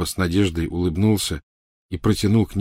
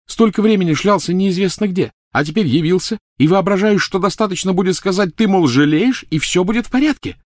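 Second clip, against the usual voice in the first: put-on furious girl; 12 semitones higher, 4 dB louder than usual. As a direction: spit each word out with a blow. Hermione ranting.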